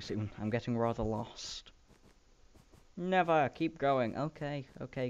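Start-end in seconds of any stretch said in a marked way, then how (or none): 3.0-4.2 inner conscience. Pretend.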